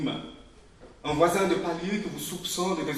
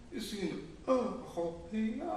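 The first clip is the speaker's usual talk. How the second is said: laughing; 5 semitones higher, 4 dB quieter than usual. Acted. Laugh heard on the line.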